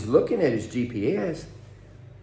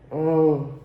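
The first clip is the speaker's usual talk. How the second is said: mock panicked copilot; 3 semitones higher than usual.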